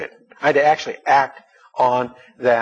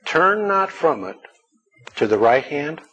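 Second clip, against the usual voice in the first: emphatic scripture reading; 2 semitones higher than usual. Acted.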